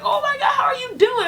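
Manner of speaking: high, gushing greeting in imitation; mock excited scream. Imitating the birth mom greeting her at Dunkin' Donuts, high and gushing. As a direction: imitate a squealing, delighted greeting. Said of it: "And she starts screaming".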